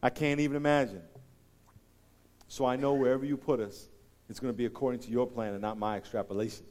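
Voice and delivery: closing prayer. Real, not acted. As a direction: lead the church in quiet earnest prayer.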